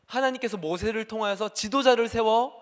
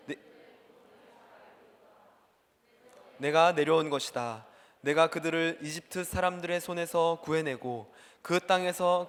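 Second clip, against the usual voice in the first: scripture reading; 3 semitones lower than usual. Acted. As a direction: read the Lord's words with weight. Reads God's words from Exodus. (하나님의 말씀을 낮고 장엄하게 낭독)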